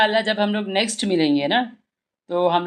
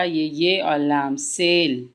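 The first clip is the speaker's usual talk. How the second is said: slow spelling; 3 semitones lower, much slower than usual. Shown as a demonstration. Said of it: "धीमे धीमे जुड़वाइए".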